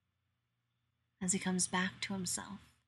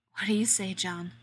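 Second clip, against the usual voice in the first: hoarse voice; 4 dB louder than usual. Acted. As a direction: ask it hoarsely, teasing. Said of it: "in that same hoarse voice".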